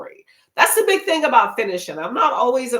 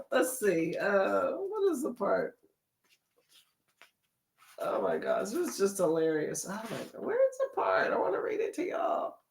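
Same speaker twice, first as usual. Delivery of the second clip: muttering to self; 9 dB quieter than usual. Real, not acted. Searching, laughing quietly.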